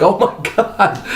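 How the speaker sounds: mock freak-out. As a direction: act out freaking out. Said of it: "I started freaking out, like".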